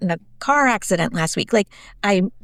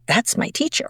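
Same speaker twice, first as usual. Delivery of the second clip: put-on hushed, rising little-boy wonder; retold child's astonished discovery; awestruck first grader; 4 semitones higher than usual. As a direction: lightly imitate a stunned small child. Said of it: "Drew freezes in place and his little eyes get huge".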